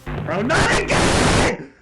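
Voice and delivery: loud, high, drawn-out scream; freaked-out yell of protest; panicked shout. Real, not acted. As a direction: scream it in dread, stretched out. Panics as the messages return.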